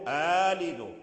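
"أألد" as "aalidu", one long opening a; hamza turned long vowel. Shown as a demonstration. Teacher showing the Warsh reading of "أألد", hamza turned long vowel. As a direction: replace the second hamza of "أألد" with a held a. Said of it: "هذا هو الوجه الذي نقرأ به".

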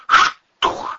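breathless gasped question; gasping. A narrator's reading. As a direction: choke on the word. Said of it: "задохнулась Кристина".

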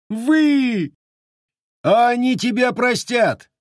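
sharp scolding shout. Acted. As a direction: cut him off with a sharp shout. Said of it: "прикрикнул Наймит".

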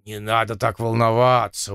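put-on child begging. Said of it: "умоляюще протянул Питер".

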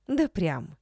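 ordinary delivery

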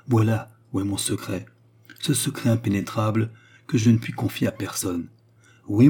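lightly voiced woman, emphatic and regretful; impassioned Baccarat. Baccarat tells the count she cannot love him, impassioned. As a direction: swell with restrained fervour, then settle. Baccarat explains her vow.

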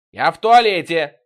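loud, slow, drawn-out call; high, beckoning shout; inviting yell. A narrator's reading. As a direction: holler from behind a door. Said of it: "призывно заорал Витёк".

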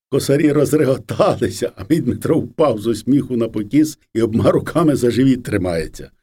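ordinary delivery

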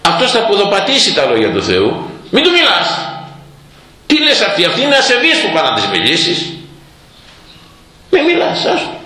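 high, worked-up scolding; agitated rebuke. Retold or imitated. The preacher scolds the eager believer who argues with a blasphemer, high and heated. Imitated zealot arguing.

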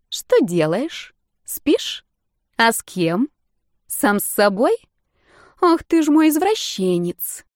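slow, sing-song teasing on the phone; mocking. A narrator's reading. Blonde mocking her sleepy boyfriend on the phone, slow sing-song taunt. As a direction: needle him, drawing the words out. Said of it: "явно над кем-то издеваясь".

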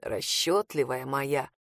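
fond teasing murmur; tender. A narrator's reading. Reed answers her joke tenderly, low and slow. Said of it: "с нежностью произнёс он".

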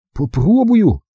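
hesitant, high small voice; doubtful, barely willing; unsure. A narrator's reading. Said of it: "неуверенно отозвался Билли".

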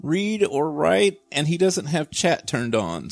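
indignant mom voice. Retold or imitated. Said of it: "I was like".

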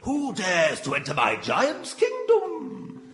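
hammy giant voice. Acted. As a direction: puff up like a giant. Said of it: "I am a giant".

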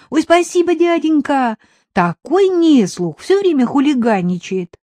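put-on high, loud girl's voice; village girl. A narrator's reading. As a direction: play a chattering village girl. (высокий голос девчонки)

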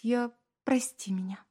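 whispered, tearful apology; weeping wife whispers sorry. A narrator's reading. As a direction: barely breathe it through sobs. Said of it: "шепча".

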